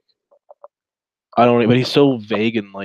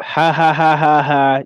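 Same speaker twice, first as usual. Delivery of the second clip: mock laugh; 5 semitones higher, 7 dB louder than usual. Streamer imitating bullies laughing at a stood-up date. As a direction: fake taunting laugh, higher and louder.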